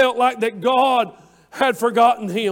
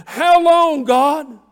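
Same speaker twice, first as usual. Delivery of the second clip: higher and louder, a sudden sharp cry to God; 4 semitones higher, 5 dB louder, much slower than usual. Acted. Preacher crying David's question to God, loud and raised. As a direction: throw the question up to heaven.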